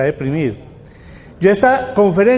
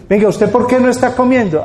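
higher, louder, prodding question; pressing questioner; 5 semitones higher, 4 dB louder, faster than usual. Retold or imitated. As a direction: demand an answer like a worried parent. Parent questions a depressed person.

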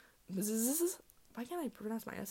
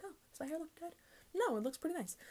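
vain self-admiration; 9 semitones higher, 4 dB quieter than usual. Pretend. Admiring her hair in sunlight.

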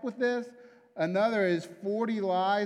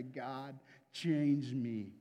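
hushed, much softer plea to God; whispered-down desperate plea, much softer; quiet prayer; 6 semitones lower, 7 dB quieter, much slower than usual. Retold or imitated. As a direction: pray it low under the breath.

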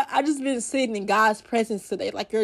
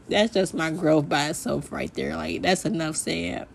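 emotional; 4 semitones lower, 5 dB quieter than usual. Real, not acted. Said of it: "I'm sorry I'm emotional".

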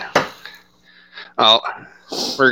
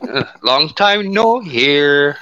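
sultry voice; 5 semitones higher, much slower than usual. Pretend. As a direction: stretch it out seductively. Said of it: "I know you missed my sultry voice".

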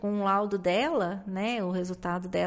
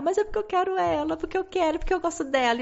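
put-on higher childlike whine, pleading fast; son's tearful plea; 8 semitones higher, faster than usual. Mother imitating her son pleading to stay with his therapist, a high childlike whine. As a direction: let it come out as a little boy begging to stay.

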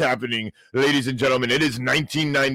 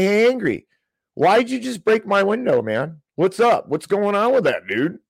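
high, loud, incredulous "what's up, man?"; exasperated protest; 7 semitones higher, 3 dB louder than usual. Pretend. Man confronting the window breaker, loud and high in disbelief. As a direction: play it as a wronged neighbour demanding answers.

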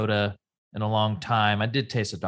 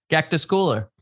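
proud announcement; 7 semitones higher, 5 dB louder than usual. Real, not acted. Proudly naming favorite soda.

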